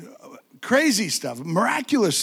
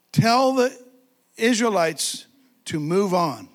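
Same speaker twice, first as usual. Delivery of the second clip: lightly voiced God, slow and emphatic; a hint of divine command, drawn out; slower than usual. God tells Moses to lead the Israelites on, slow command.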